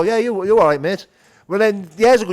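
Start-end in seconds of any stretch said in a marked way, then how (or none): 0.0-1.1 cheerful greeting. Retold or imitated. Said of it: "Now I have the ability to go".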